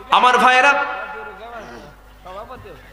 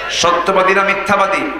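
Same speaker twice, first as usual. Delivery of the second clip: "সত্যবাদী না মিথ্যাবাদী?" pushed out a little louder for the crowd to answer; louder call to the crowd. Shown as a demonstration. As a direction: prompt the crowd to answer back, a bit louder. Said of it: "আসতে বলবেন না".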